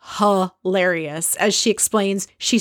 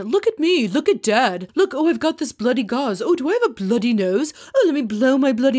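higher, showy mock dad voice, a touch fast at the end; attention-seeking husband; 5 semitones higher than usual. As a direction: ham up a needy dad showing off.

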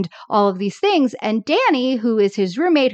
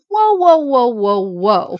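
calling him out; 2 semitones higher, 5 dB louder than usual. Retold or imitated. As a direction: halt him with mock alarm. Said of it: "Danny's calling him out on it".

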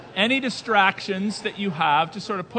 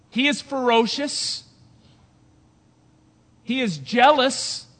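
loud, higher, punching each claim with pauses; forceful preaching; 3 semitones higher, 6 dB louder than usual. Acted. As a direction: thunder it from the pulpit.

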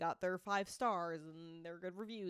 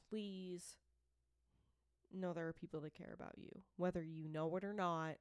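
softer, earnest reassurance; serious, sincere; 2 semitones lower, 4 dB quieter than usual. Real, not acted. Host urging struggling listeners to call the hotline, serious and sincere. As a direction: plead gently and in earnest. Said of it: "This is a serious moment".

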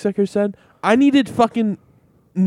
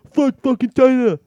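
high, hammed-up crowd yell; put-on high protest shout; mock outcry; 7 semitones higher, 4 dB louder than usual. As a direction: imitate an outraged crowd, pitched way up. Imitates everyone's outcry against China.

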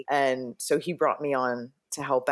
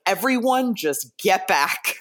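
higher, slowed mock command with a laugh; retold firm order; 5 semitones higher, 3 dB louder, slower than usual. Hairdresser orders crew away from actor's hair, amused mock command. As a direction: imitate taking charge, amused.

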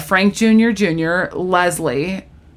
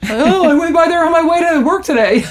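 higher, chirpy retold reply; breezy acted reply; 9 semitones higher than usual. Phoebe answering about Central Park, breezy. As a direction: toss it off like small talk.

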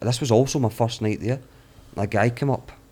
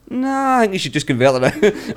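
higher, louder mock insistence; insistent militant; 10 semitones higher, 6 dB louder than usual. Mujahideen guy pressing him to convert: higher, louder mock insistence. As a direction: imitate a pushy demand. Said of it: "And he's like".

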